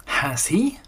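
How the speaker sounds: soft breathy whisper. A narrator's reading. Pooh answering Piglet from under the chair, whispered. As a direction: keep it hushed under the chair.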